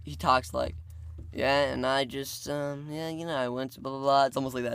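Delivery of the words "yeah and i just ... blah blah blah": lightly imitated tired-from-work talk; a hint of a laid-back, stressed uncle; chill, work-weary. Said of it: "very chill and stressed out from work, he talks like".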